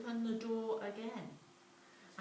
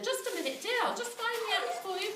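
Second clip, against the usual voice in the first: calm mum; 12 semitones higher, faster than usual. Acted. Mum's calm reply.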